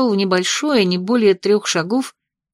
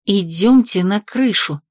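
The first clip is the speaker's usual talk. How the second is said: through gritted teeth; slower than usual. Acted. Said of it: "процедила я".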